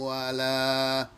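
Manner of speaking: breath runs out mid-chant; trailing off with no air left. Real, not acted. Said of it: "I ran out of breath".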